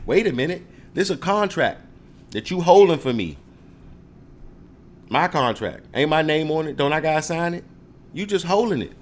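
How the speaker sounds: loud, rising indignation at the clerk; indignant. Acted. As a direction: demand your rights, getting heated. Acting out the office argument.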